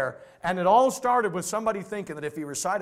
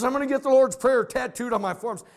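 quoted higher and louder, mocking; lightly voiced brash student, a touch mocking; mock young gangbanger; 7 semitones higher, 4 dB louder than usual. Pastor retelling a student's tattoo plan, higher and louder. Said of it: "He says".

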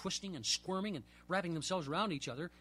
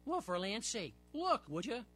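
rising higher, amazed; surprised; 5 semitones higher, slower than usual. Acted. Portry noticing both hooks in the fish, surprised. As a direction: point it out in wonder. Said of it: "and said".

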